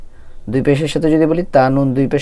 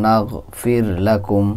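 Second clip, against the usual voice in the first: নাগফির লাকুম drawn out slowly; slow recitation; much slower than usual. Shown as a demonstration. Teacher reciting the verse for students, slow. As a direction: hold নাগফির long in reciting tune. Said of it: "আসে হলো হরকতের উচ্চারণ".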